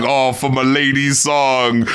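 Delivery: low, slowed-down imitation of a love rap; kinda slow. Host imitating a rapper's lady song, slow delivery. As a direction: drag out the line in a low voice. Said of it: "he's speaking like this, kinda slow".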